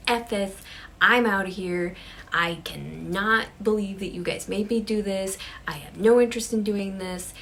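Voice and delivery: loud, emphatic refusal; completely done. Acted. Sarah quitting the séance on her friends, completely done. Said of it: "She is completely done".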